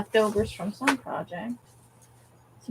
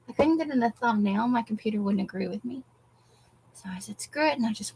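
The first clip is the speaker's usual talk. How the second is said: out of breath; 3 dB quieter than usual. Real, not acted. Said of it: "now that I'm out of breath".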